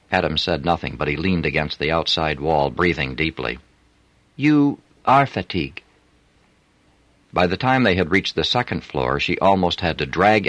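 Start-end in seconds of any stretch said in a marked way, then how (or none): 4.3-5.8 put-on higher voice with a French accent; a flirty French streetwalker. A narrator's reading. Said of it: "unmistakable French accent".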